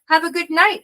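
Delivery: high, pleasant sign-off; friendly farewell. Retold or imitated. Biker leaving her safely at the hostel, friendly. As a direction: imitate a cheery, high-pitched goodbye.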